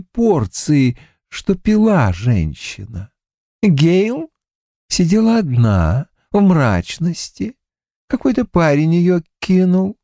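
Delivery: smug, unhurried killer; calm creepy killer. A narrator's reading. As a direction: savour each word like a predator. Killer Creed speaks.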